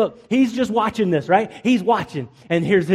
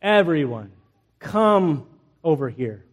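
understated, lower weary summons; tired of it; 3 semitones lower than usual. Retold or imitated. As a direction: call them over as if done mocking. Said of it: "He got tired of this".

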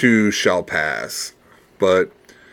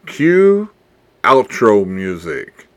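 announcer call; 4 dB louder, much slower than usual. Real, not acted. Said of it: "announcing the outro".

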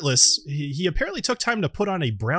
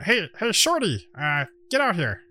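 calling out; 5 semitones higher than usual. Acted. Gnome calls companion from tent.

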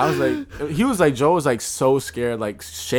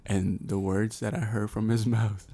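dramatic storytelling; 3 dB louder than usual. Acted. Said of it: "this is my storytelling voice".

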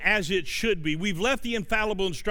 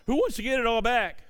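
calling out higher to the crowd; rallying call; 4 semitones higher than usual. Real, not acted. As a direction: rouse the congregation. Repeated ask, higher and rising.

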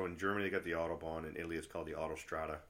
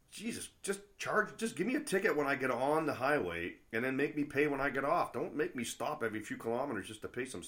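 high, loud fed-up protest; exasperated rant; 8 semitones higher, 6 dB louder than usual. Acted. Driver fed up with French toll booths, exasperated outburst. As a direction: plead in exasperation at the absurdity. Acted complaint about endless French tolls.

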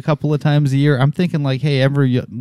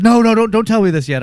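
higher-pitched retold protest; softened retold plea; 7 semitones higher than usual. Host corrects how friend quoted him, replaying a mild plea. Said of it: "I didn't say it like that".

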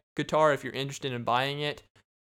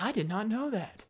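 mock stunned listener; 8 semitones higher than usual. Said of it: "They'll be like".

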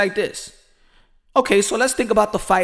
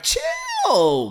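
ordinary talk, nothing marked

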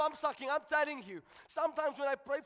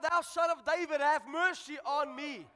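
retold cry for mercy. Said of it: "And he started shouting out".

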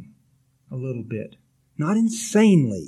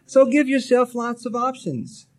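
louder and higher; emphatic advice; 7 semitones higher, 4 dB louder than usual. Real, not acted. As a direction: announce it firmly. Repeated advice, first take.

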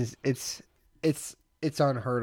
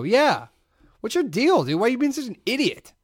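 mock berating; 9 semitones higher, 3 dB louder than usual. Prank, yelling at stranger.

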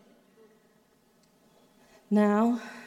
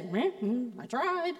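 half-hearted shrug. Retold or imitated. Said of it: "we can just say".

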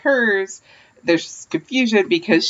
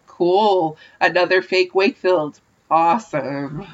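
dry sarcastic cool; unimpressed awesome; slower than usual. Retold or imitated.

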